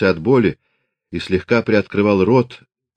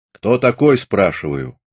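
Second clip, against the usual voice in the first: demanding. Acted. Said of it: "властно спросил он".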